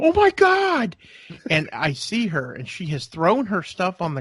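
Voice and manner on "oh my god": sudden high shocked cry of oh my God; wife yelping in alarm at the crash; shocked shriek. Retold or imitated. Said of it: "I hear Julie go".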